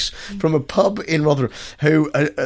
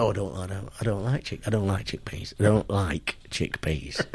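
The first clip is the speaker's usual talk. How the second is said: mock reluctant woman; 6 semitones lower, 10 dB quieter than usual. Woman refusing chickpeas, quoted.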